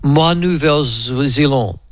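slow, halting schoolboy French; lightly hammed-up beginner's French. New Zealander trying the language on the French, schoolboy French. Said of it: "with my schoolboy French".

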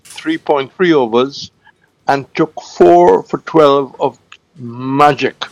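measured pace, letting each figure land; slow and deliberate. Real, not acted. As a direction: spell the figures out slowly. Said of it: "I'll say it slowly".

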